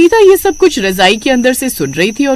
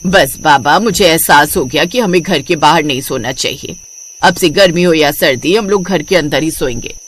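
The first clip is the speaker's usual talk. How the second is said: chastened woman, pitched lower; Vinita; 6 semitones lower than usual. Acted. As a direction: admit the lesson in a lower character voice. (सबक सीखी हुई, नीची आवाज़)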